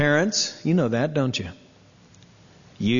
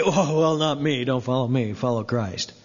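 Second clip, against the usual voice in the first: waffling tone. Retold or imitated. Preacher mocks a believer dodging being an example, waffling. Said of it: "that waffling tone of voice".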